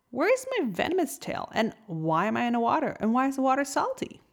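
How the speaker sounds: a lobster panicking as he finds his tail gone; alarmed surprise. Acted. Lobster checking his body, shocked and alarmed.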